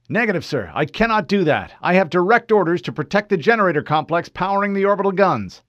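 Fred reporting to an unknown officer, formal. Acted. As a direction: state rank crisply. Fred refuses order.

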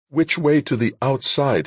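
lost and afraid, asking himself; frightened question. A narrator's reading. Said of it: "he asked himself".

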